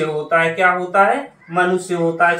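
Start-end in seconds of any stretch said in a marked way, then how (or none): 1.5-1.9 मनुष्य as "manusya", with a short "u"; correct pronunciation. Shown as a demonstration. Teacher showing the short vowel sign, "ma-nu-sya". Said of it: "छोटी उ की मात्रा".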